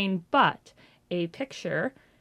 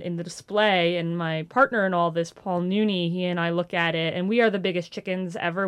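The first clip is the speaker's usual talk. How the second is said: ordinary delivery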